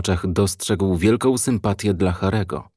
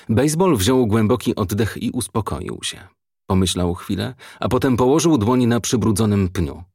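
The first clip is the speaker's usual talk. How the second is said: plain reading voice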